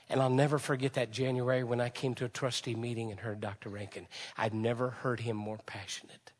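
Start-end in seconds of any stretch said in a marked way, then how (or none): 4.4-6.3 hushed whisper. Real, not acted. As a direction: drop to a whisper.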